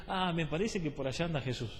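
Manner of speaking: mildly mocking, casual aside; casual half-listening. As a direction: imitate an inattentive churchgoer, dropping the volume. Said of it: "oído así nomás, como algunos que vienen".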